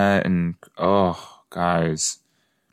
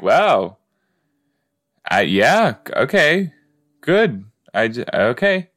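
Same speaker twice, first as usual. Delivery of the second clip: awkward polite listener; 4 semitones higher than usual. Retold or imitated. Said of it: "and you're just like".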